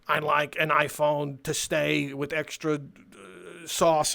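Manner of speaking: slow, dopey customer imitation; mock customer. Customer ordering a phone from the clerk, mock slow voice. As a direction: drag out the order like a clueless customer.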